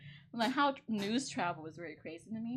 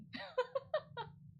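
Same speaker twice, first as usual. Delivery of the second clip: a very high, softer laugh; 6 dB quieter than usual. Real, not acted. Vlogger laughing at her own joke about getting punched, soft high laugh. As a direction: let a quiet high laugh slip out.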